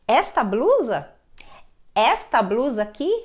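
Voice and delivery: "Esta" stressed on ES, open e; stress on first syllable. Shown as a demonstration. Teacher contrasting esta with está, first syllable of "Esta" stressed. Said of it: "mudou a tonicidade".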